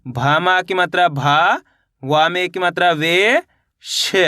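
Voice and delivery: slow, spelled-out teacher reading, building up भावेश; syllable by syllable. Shown as a demonstration. Teacher showing children how to blend letters, slow and sounded out. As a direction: sound out each letter, then join them into भावेश. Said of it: "एक बार फिर से देखिए".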